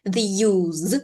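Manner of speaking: "use" ending in a buzzing z; voiced Z sound. Shown as a demonstration. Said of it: "z, the voiced sound z".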